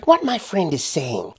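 high, slow, pleasant American voice; unruffled smiling woman. Acted. Woman interrupting her raving friend, smiling and unruffled. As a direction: cut in with a smile, unbothered. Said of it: "still smiling and talking as if the man next to her was not a raving lunatic".

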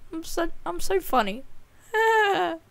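laughing at own joke. Real, not acted. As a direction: giggle through it.

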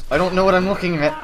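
rushed mock panic; mock panic, fast. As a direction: gabble it in fake panic. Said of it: "I'm having a panic attack".

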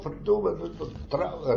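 imitating the cry he gave in the pit; retold shout. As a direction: call it out like a curse across the mine. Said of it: "Ik riep ook op".

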